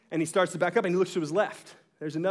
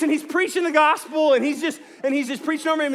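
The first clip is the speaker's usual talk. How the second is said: retelling through laughter, voice high; laughing storytelling; 7 semitones higher, 5 dB louder than usual. Retold or imitated. Preacher to congregation, laughing while retelling the story. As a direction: laugh your way through the wild part.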